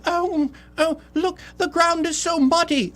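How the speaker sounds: high, prissy British lady voice; a high-pitched mock British lady fretting about mud. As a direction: play a fussy British lady in a falsetto. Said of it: "I don't know why she's British".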